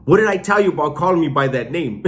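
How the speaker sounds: mock outburst. Retelling an inmate jumping up to object, mock outburst. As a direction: jump on it like a hammed-up protest. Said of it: "he jumped up and goes".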